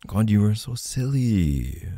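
fond teasing. Acted. Partner chides loved one for being silly, fond teasing. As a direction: tease them affectionately at full voice.

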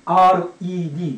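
アールイーディー as three long Japanese letter names. Shown as a demonstration.

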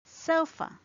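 "Sofa." said slowly with a relaxed uh at the end; model word. Shown as a demonstration. Teacher repeats the example word, ending on schwa. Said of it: "the last sound in sofa".

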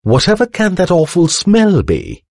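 high-pitched housekeeper's gasp of dismay. A narrator's reading. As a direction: gasp it out high, appalled by the smell. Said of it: "gasped Missus Flittersnoop".

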